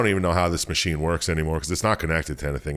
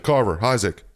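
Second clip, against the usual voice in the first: a bit higher, mock worried call over the comm; 5 semitones higher, 3 dB louder than usual. Ellie calling the crew over the comm, mildly worried. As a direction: call their names, lightly acted.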